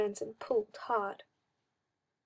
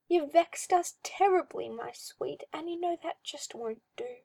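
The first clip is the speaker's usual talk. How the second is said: a hint of a creepy, cooing master; mildly sinister coaxing; lightly voiced oily magister; 5 semitones higher than usual. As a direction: purr it like a condescending owner.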